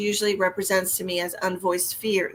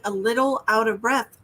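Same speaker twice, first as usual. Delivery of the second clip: "little" picked out with emphasis; stress on LITTLE; 2 semitones higher than usual. Real, not acted. Psychic clarifying a client's symptom, stress on "little". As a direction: lean on "little" to limit the claim. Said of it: "I literally mean a little".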